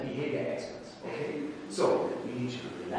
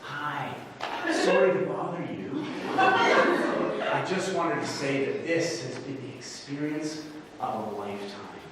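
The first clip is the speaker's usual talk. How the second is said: put-on polite Canadian; apologetic Canadian courtesy, lightly acted; most polite Canadian voice. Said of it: "in my most polite Canadian, uh, voice".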